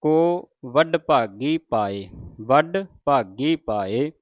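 slow, drawn-out chanting; slow Punjabi recitation. Shown as a demonstration. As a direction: recite it slowly and evenly. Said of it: "teacher repeats the line".

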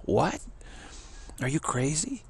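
floored by the answer; shocked. Retold or imitated. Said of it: "newcomer reacts".

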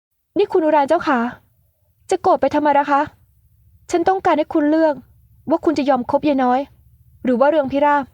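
high, sugary teasing voice; coquettish young woman.

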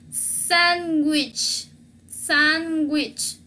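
sándwich slow, in separated syllables; final CH. Shown as a demonstration. Teacher models word-final ch, slow sándwich. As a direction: stretch sándwich and land on the final ch. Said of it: "al final de la palabra".

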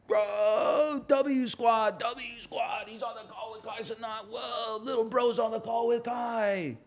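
high, loud, hyped streamer voice; hyped streamer impression. Imitating a hyped streamer on a call, high and loud. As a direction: yell it like a hyped live streamer.

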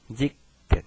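"jiken" as jik-ken with short i; shortened JI form. Shown as a demonstration. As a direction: say ji, not ju, before the stopped k in "jiken". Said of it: "也就是说念成".

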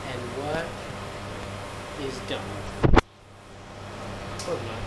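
talking through a sore throat; strained, sore-throated speech. Real, not acted. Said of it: "I'm finding it hard to, hard to talk".

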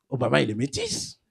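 low, soft musing; understated, hushed discovery; quiet realization. Retold or imitated. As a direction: say it low, as if thinking to yourself. First, musing take of repeated line.

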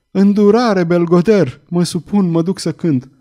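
high, urgent plea, understated; begging for mercy. Acted. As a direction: give in with a touch of panic. Girl begs the whip-wielder for mercy. (implorare supusă, pe ton înalt)

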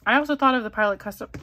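talking through hiccups; hiccuping mid-sentence. Real, not acted. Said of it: "I don't know why I'm, like, hiccuping".

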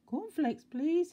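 tiny, very high squeaky voice; high-pitched mock whisper; timid whisperer. A narrator's reading. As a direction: squeak it like a timid little man. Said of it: "he whispered".

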